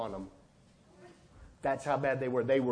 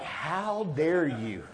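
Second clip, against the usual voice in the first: indignant; much slower than usual. Retold or imitated. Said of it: "And I got so mad at God".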